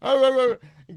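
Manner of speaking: giving him shit. Retold or imitated. Woman scolding him as he goes out, mock nagging. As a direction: taunt him, rising into wordless nagging. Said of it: "she's giving him shit".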